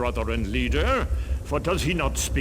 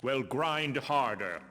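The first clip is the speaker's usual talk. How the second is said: softer, hushed worried murmur; hushed guard talk; 2 semitones lower, 8 dB quieter than usual. Acted. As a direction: keep it down, the guards gossip in secret.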